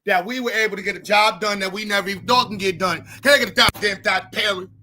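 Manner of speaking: rally a congregation with smug mock thanks; white voice. Comic's white persona preaching thanks to rich black folks, hammed-up. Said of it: "I need a name for my white voice".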